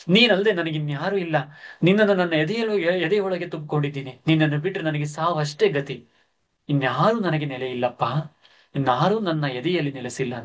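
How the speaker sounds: put-on old servant's plea. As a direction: plead as if your life hangs on it. Old servant begs not to leave. (ದೀನ ಬೇಡಿಕೆ)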